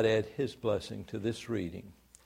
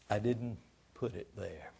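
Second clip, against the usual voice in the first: somber; 3 semitones lower, 10 dB quieter than usual. Acted. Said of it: "The Lord looked somber".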